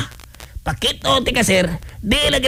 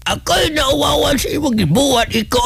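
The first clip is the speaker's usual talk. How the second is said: mock shame shout; 5 semitones higher than usual. Comic scolding at the mortician.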